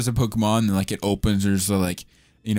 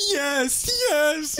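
high, giddy "yes, yes"; dubbing a character accepting a proposal, high and giddy; mock excited yes. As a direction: squeal it like an overjoyed fiance. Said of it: "He's like".

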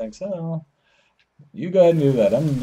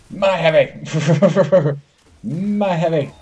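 drawn-out, higher mock-greedy claim; playful possessive claim; 4 semitones higher, 3 dB louder, much slower than usual. Gamer gleefully claiming the heavy ammo, drawn-out possessive claim.

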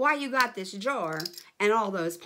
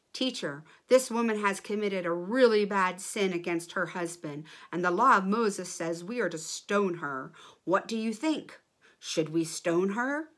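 accusing men; 5 dB louder than usual. Acted. Accusers confront Jesus.

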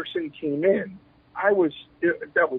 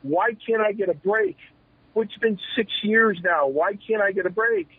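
higher-pitched exasperated pleading; retold frustration; 5 semitones higher than usual. Wrestler pleads with his chief for a break, frustrated. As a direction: re-enact a frustrated plea. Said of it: "he'd see my frustration".

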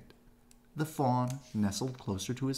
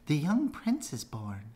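excited rabbit; 7 semitones higher than usual. A narrator's reading.

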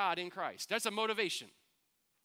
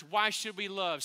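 louder, questioning call to the room; calling out to church; 4 dB louder than usual. Shown as a demonstration. Pastor calls out to the church, a little louder. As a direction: throw the question out to the crowd. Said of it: "Hey, church".

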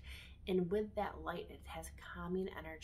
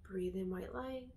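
soft, soothing meditation voice with long pauses; guided meditation; 6 dB quieter than usual. Acted. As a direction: guide them gently through each breath.

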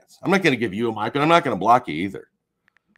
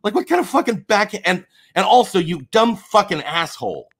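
heated, raised voice of rage; furious rant; 5 semitones higher than usual. Real, not acted. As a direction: tear into him, furious. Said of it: "But I'm furious. I'm shaking with rage".

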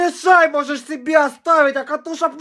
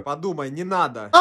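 pimple voice; 11 semitones lower, 11 dB quieter than usual. Acted. Pimple pleads quietly.

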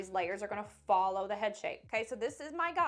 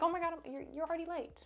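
mock panic; 6 semitones higher, faster than usual. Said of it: "panicking like".

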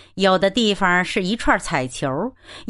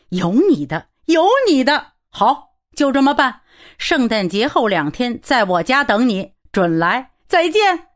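jovial teasing friend; 4 semitones higher than usual. Acted. Jolly friend teasing, then leaving.

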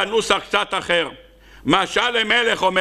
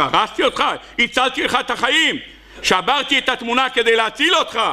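higher, insistent reply; indignant friend; 5 semitones higher than usual. Acted. Friend answering the painter, higher and insistent. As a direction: push back, I saved you. Friend explains saving him.

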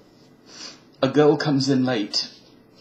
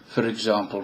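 Southern accent; 2 semitones lower than usual. Shown as a demonstration. Shows off switching accents for the viewers, Southern accent. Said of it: "I just changed to Southern".

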